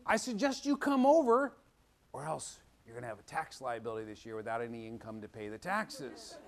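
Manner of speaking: pretend dad threat. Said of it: "he could call me up today and say".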